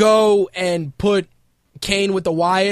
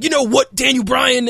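imitating Shawn Michaels; 4 semitones higher, 3 dB louder than usual. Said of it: "He's like, he's like".

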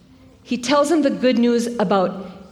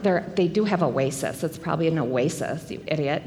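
mock know-it-all; 9 semitones lower, 6 dB quieter than usual. Mocking an imagined know-it-all.

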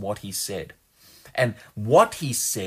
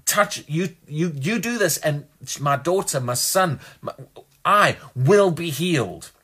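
confident declaration; 4 semitones higher than usual. Retold or imitated. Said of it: "verbally spoke out".

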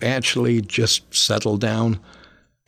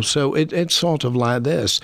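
a higher posh Manchester accent; 5 semitones higher than usual. Shown as a demonstration. Imitating his dad's posh Manchester family, a posh Manchester accent. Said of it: "they're quite posh".

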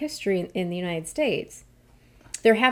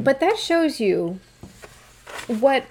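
holding back anger; 6 semitones higher, slower than usual. Real, not acted. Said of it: "without getting angry".

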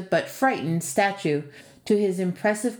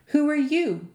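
put-on higher, wary old woman's question; suspicious question; 8 semitones higher than usual. A narrator's reading. Old woman questions the lad at her door, suspicious. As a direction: eye the stranger at the door. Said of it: "she queried suspiciously".

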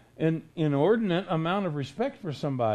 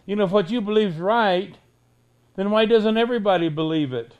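mock letter writer; 6 dB louder than usual. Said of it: "you write me letters and say".

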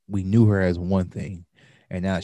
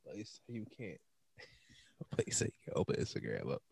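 after laughing hard; 4 semitones lower, 14 dB quieter than usual. Real, not acted. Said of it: "Oh, man".

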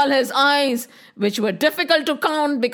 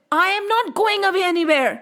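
higher, quick, firm retort; defiant refusal; 4 semitones higher, much faster than usual. Acted. Krishna answers the serpent's threat, defiant. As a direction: stand your ground against the bully.

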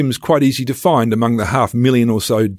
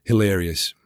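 whispered aside; 3 semitones lower, 4 dB quieter than usual. Real, not acted. Dry aside after the jeer.

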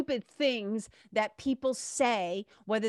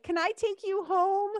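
much higher, laughing through the question; laughing offer; 12 semitones higher, 3 dB louder than usual. Retold or imitated. Cashier laughing as she jokes to the speaker, laughing. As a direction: giggle it out as a joke. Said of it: "she starts laughing".

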